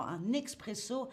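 expresso in a plainly French accent, no Italian sound. Shown as a demonstration. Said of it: "vrai accent français". (avec un vrai accent français)

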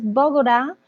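"Bogotá" with the t softened into a tapped r, like "Bogorá"; learner's error "Bogorá" for "Bogotá"; wrong pronunciation. Shown as a demonstration. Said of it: "es que muchos dicen".

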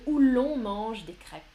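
"où l'on" joined smoothly by an L; smooth linking L. Shown as a demonstration. Teacher shows students the prettier form, smooth linking L. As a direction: let the L in "l'on" glide between the vowels. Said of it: "plus joliment".

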